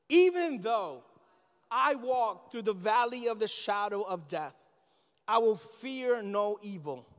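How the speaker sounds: slow, weighty reading of the psalm, each line given space; solemn scripture reading. Acted. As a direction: lay each verse down slowly and reverently. Reads Psalm 23 aloud slowly.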